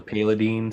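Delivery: "Paladin" re-pronounced in a silly alternative way; alternative pronunciation. Shown as a demonstration. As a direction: offer a jokey rival pronunciation of "Paladin". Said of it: "sounds way better".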